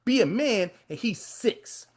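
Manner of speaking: lightly voiced grandmother owning up; grandma conceding. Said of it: "she's looking like".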